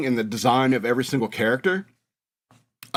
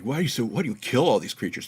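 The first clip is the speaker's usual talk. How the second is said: lower, mildly whiny mock complaint; mock crying; 4 semitones lower, 4 dB quieter than usual. Podcaster mimicking upset listeners asking about killed creatures, mock crying. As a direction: imitate a tearful complainer, half-hearted. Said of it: "Those of you crying is like".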